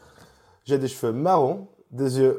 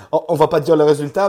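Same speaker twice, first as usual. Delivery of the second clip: playful; 2 semitones higher, 10 dB louder than usual. Real, not acted. Coy about show results.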